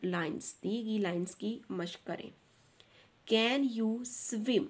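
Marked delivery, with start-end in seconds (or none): 3.3-4.6 "Can you swim" said very slowly, can falling and swim rising; stress on swim. Shown as a demonstration. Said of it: "यहाँ पे आपने स्विम पे stress देना है". ("swim" पर ज़ोर, "can you" गिरती आवाज़ में)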